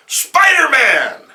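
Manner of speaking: loud, high, drawn-out outcry; slow furious yell; shocked shout. Acted. Felicity sees hero again.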